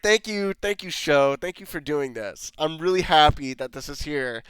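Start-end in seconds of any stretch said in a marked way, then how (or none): 0.0-2.5 dry mock gratitude; sarcastic thank you to the show. Real, not acted. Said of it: "I'm being sarcastic".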